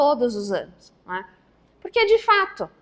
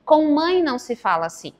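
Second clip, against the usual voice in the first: firm parent. Shown as a demonstration. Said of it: "aí precisa ser firme".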